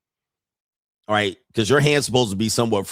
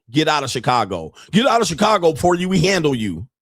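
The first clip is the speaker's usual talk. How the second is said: rising mock scolding, quicker at the end; mocking angry fan; 4 semitones higher than usual. Voicing the heckler chewing out Kanter, mock angry. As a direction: bark it like the heckler in the clip. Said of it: "chewing him out, saying".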